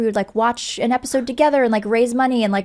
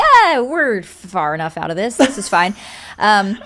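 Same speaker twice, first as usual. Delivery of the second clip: slow, louder, carefree dismissal; mock breezy officials; 5 dB louder than usual. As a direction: wave off the danger like Texas officials. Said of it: "they were like".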